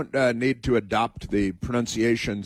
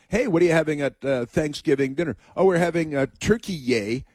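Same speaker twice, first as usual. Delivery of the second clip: mocking dialogue; 4 semitones higher than usual. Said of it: "can't pronounce anymore".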